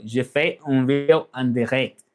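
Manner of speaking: "Je fais" as zhuh feh; French pronunciation. Shown as a demonstration. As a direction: demonstrate French je fais un video en direct. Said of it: "That's how you say that".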